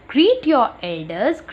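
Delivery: very slow, word by word; slow read-aloud. Shown as a demonstration. Teacher announcing the next rule to children, slow. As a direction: say each word slowly for the class. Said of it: "teacher reads rule slowly".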